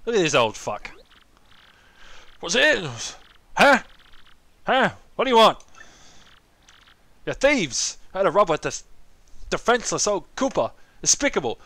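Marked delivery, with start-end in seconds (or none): 2.4-11.6 put-on high, loud, cantankerous old man. Old Koopa accuses visitors of being thieves, indignant old-man voice. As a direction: squawk accusations like an elderly grouch. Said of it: "What's with all the fucking old people".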